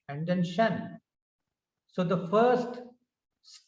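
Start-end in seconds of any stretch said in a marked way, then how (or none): 0.4-1.0 "shan" said as a separate syllable; isolated second syllable. Shown as a demonstration. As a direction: give "shan" on its own. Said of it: "two syllables".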